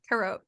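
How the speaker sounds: "carrot" said the French way, ka-ROT; "carrot" with French vowels, stressed at the end; French pronunciation. Shown as a demonstration. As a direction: model "carrot" as French carotte. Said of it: "I don't know what carrot is".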